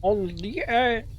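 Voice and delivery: put-on playful French accent Mon Dieu. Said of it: "solo se habla francés".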